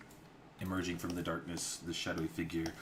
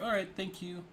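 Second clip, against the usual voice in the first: put-on high girly voice; 13 semitones higher than usual. Sisters thanking, high.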